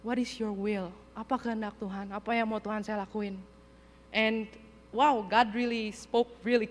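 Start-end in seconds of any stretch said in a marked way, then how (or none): 0.1-3.4 softer, surrendering question to God; subdued prayer. Retold or imitated. Worn-out missionary asking God what he wants, softly resigned. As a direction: ask quietly, the anger spent. Retold prayer after anger is spent.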